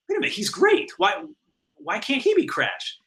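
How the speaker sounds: high-pitched, excited mock producer; impressed producers. Producers discovering the scratch voice, excited. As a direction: imitate someone suddenly sold on an idea.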